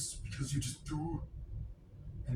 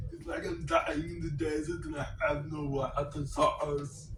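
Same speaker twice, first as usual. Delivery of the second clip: lightly put-on action-star voice; mock-dramatic complaint in a borrowed accent; Arnold. Vlogger joking about dying in the desert, Arnold impression. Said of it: "My Arnold voice".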